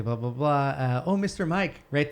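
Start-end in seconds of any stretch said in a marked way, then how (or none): 1.1-1.8 lightly voiced nanny, pitched up; a hint of the nanny, higher; imitated nanny. Retelling a nanny interview, lightly imitated higher voice. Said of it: "then she says something".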